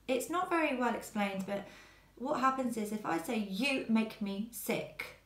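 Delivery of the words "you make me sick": slow, sharp, nasty delivery with YOU hit hard; mock aggressive taunt. Shown as a demonstration. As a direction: spit out You make me sick slowly, with YOU stressed sharply. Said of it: "It's quite an aggressive tone of voice".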